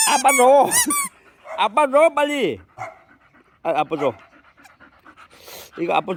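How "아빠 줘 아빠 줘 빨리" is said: louder, higher insistence; loud demand. Real, not acted. Owner loudly demanding the ball from his dog. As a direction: insist the dog hand it over.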